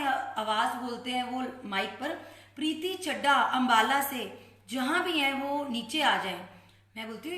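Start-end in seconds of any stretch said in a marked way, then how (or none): 2.6-6.4 loud public announcement over a mic. Retold or imitated. Sevadar calling a visitor's name over the temple mic, loud announcement. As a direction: call the name out to the whole hall.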